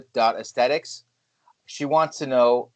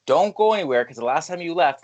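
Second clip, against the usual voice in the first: urgent plea; 5 semitones higher than usual. Retold or imitated. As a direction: act out begging her to stay. Retells pleading with wife to stay.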